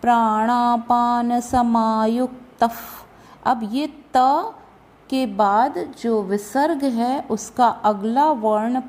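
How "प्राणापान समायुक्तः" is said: प्राणापान समायुक्तः recited slowly, closing on a breath like f; visarga as soft f. Shown as a demonstration. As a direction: end समायुक्तः on a light f-like puff. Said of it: "इसलिए उसका उच्चारण फ".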